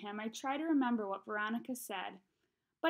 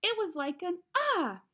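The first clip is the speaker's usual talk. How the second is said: high kid voice with a mock yelp; high, loud-ish mock "ah"; child imitating a scream; 8 semitones higher, 5 dB louder than usual. A narrator's reading. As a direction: demonstrate a little yell as a small boy. Boy imitates his own scream.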